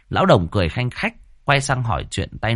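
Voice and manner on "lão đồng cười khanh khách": usual speaking voice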